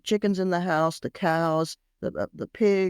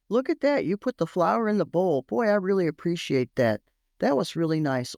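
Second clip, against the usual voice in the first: encouraging praise; 2 semitones higher than usual. Acted. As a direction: praise a child's effort with delight. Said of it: "don't wait for the finished product to praise".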